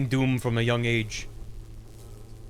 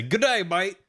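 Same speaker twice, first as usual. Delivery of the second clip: light mock Australian accent, a bit higher; 5 semitones higher than usual. Streamer mimics the New Zealand seismologist, mock Australian accent. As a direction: toss off a breezy Australian greeting. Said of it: "in, like, a very Australian accent".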